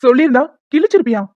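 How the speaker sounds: loud, scornful retort; angry retort. Acted. Brother blaming her for his sister's forced wedding, angry. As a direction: throw it back at her angrily.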